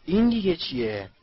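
high, loud startled question; exclaimed cry. A narrator's reading. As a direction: cry out, pitch and volume up. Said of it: "رون فریاد کشید". (فریاد پرسشی)

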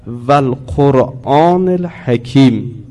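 slow chanted recitation of the verse; Quran recitation. Shown as a demonstration. Teacher to class, slow recited verse. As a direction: intone the verse slowly as in recitation.

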